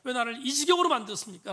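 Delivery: acted protest rising to a loud, high shout; crying out. Preacher acts the psalmist accusing God, crying out. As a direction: voice the psalmist's outcry, building in force. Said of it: "외칩니다".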